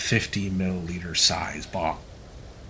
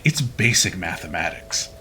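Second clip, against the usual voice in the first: smug smirk; 5 semitones lower than usual. Retold or imitated.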